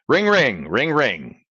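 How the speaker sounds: phone ringing imitation.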